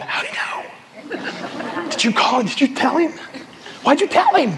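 high, panicky mock interrogation; comic squeal of suspicion; mock accusation. Churchgoer to spouse after feeling exposed, mock accusing.

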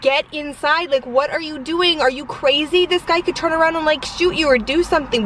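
high-pitched, urgent exasperated plea; retold scolding. Family tells dad to come back inside, retold scolding.

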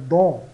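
"Dans" com vogal nasal forte. Shown as a demonstration. ("Dans" nasal e alto para os alunos)

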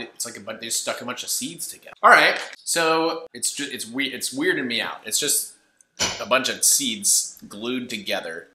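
talking with food in mouth; mid-bite seed cracker; chewing while talking. Real, not acted. Seen 1: Bites cracker at -2.0, then talks holding bitten piece, mouth working.

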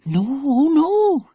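frightened whisper. Acted. Scared Tassie denies villagers come.

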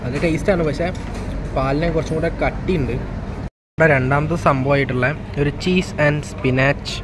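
speaking just after sipping; talking with straw at lips. Real, not acted. Seen 0: talks with the straw touching his lips, not sipping.

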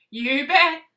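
proud boast as the lamb. Acted. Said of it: "said Lamb".

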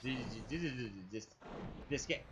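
very low, deflated voice; low stuttering grumble at the game; fed-up grumble. Real, not acted. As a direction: drop right down low, stammering in exasperation. Fed up after the outburst.

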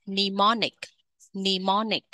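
Mnemonic said "nee-MON-ic", the first M silent. Shown as a demonstration. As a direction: drop the written M in Mnemonic. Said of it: "Chữ M đầu tiên được ghi nhưng không được đọc". (chữ M đầu không đọc: ni-mô-nic)

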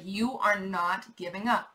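slow and firm, stress on "up" rising; slow emphatic repeat. Shown as a demonstration. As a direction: drive home "you are not giving up" slowly. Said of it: "I don't know why I had to say that, like, three times".

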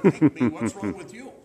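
a loud, half-laughing gruff rant; loud mock-gruff grumble breaking into a laugh; mock gruff scold. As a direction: bark it like the old curmudgeon, grinning. Curmudgeon owner scolds in retold quote.

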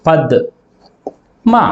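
పద్మ said as పద్ then మా; split syllables. Shown as a demonstration. Teacher showing pupils how పద్మ splits. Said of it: "ఎలా పలుకుతున్నాం".

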